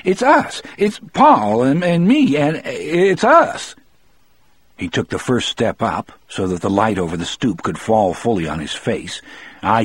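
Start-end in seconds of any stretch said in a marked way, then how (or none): 0.0-3.8 high, stammering panicked plea; frightened, halting cry in a raised pitch; voice with the shakes. A narrator's reading. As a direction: plead shakily to be recognised. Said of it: "as if the shakes ... found their way".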